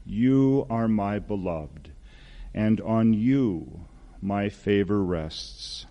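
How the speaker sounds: slow, measured declaration of blessing; lightly voiced blessing, with room between phrases; God's loving voice. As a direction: speak slowly, as if bestowing a blessing. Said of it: "You ever hear that voice?".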